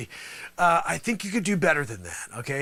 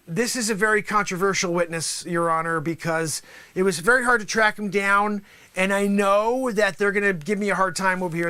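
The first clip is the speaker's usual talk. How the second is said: normal talking voice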